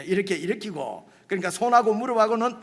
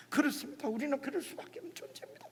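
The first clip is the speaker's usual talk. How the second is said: softer, quick preachy pastor imitation; mock pastor; 5 semitones higher, 9 dB quieter, faster than usual. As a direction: rattle it off like a smooth-talking pastor. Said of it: "이렇게 할 수밖에". (빠르고 조용하게 흉내 내는 설교조)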